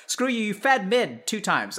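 mild mock anger, slow and deliberate; half-hearted gamer trash talk; flaming back. Player flaming a teammate back over feeding, mock angry. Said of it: "flame them back a little bit".

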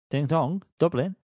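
bouncy sing-song Dublin; a light mock Irish flourish; playful Irish. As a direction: tease out "Dublin" on a rising lilt. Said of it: "Oh, well done".

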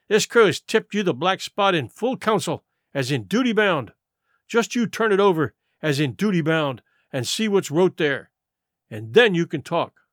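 lightly voiced pirate laying down terms; a hint of challenge to the captain; stern mutinous pirate. Crewman serving Silver the black spot, stern.

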